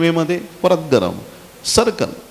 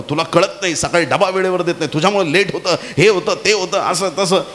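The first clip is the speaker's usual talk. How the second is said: higher-pitched, rattled-off complaints; mock scolding; 5 semitones higher than usual. Husband yelling at his wife over late lunchbox, mock scolding. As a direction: nag through a list in a lightly acted temper. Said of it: "बायकोला ओरडला एकदम".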